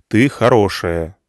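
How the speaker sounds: slow, firm reassurance; stubborn. Acted. Senya reassuring Irina, slow stubborn insistence. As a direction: insist on it slowly. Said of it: "упрямо сказал Сеня".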